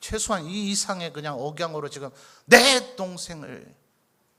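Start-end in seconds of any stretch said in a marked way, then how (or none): 2.5-3.7 loud, slow, angry yelling. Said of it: "더 재현 안 해도 되겠죠?".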